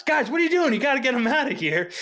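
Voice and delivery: high, urgent mock yell. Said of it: "he starts yelling at us".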